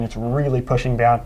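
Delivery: talking through hiccups; words broken by hiccups. Real, not acted. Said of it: "um, hiccuping".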